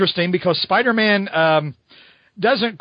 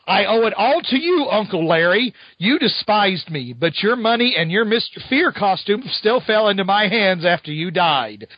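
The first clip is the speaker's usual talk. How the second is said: a hint of a gloating supervillain; lightly voiced villain thanking his uncle; a touch of villain gloat. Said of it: "this is a really bad guy".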